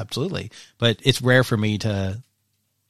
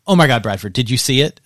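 loud and thrilled; excited, breathless rush; 7 dB louder than usual. Retold or imitated. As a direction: gossip bursting out. Friend running over excitedly.

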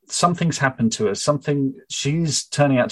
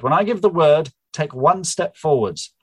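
a hint of commanding Charlotte; 6 semitones higher than usual. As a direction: calmly give the order. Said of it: "Charlotte said".

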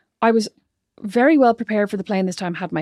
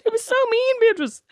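laughing; 11 semitones higher than usual. Real, not acted. Laughing recounting.

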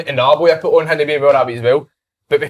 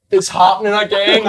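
higher mimicked confession, close to laughing; mock distress; 6 semitones higher than usual. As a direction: imitate a teammate's comic alarm. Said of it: "he's got quite a posh accent".

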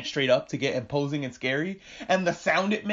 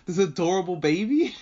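mock horror; 3 semitones higher than usual. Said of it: "my brain started going in circles".

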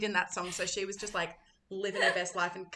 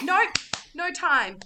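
higher, louder mock brush-off; rushed refusal; 7 semitones higher, 7 dB louder, slower than usual. Performer has no time for the audience, rushed refusal. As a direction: cut off any chat emphatically. Mimics their own rushed show.

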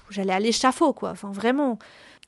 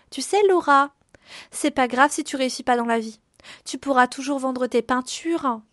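honeyed voice; 2 semitones higher than usual. Retold or imitated. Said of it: "elle me sort de sa voix mielleuse".

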